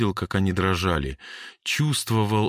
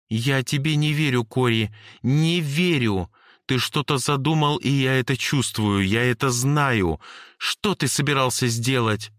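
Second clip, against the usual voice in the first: put-on higher girl's voice, accusing and insistent; Jane's voice; 6 semitones higher than usual. Jane accuses Cory of hiding something, lightly voiced girl. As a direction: press him hard, she doesn't believe him.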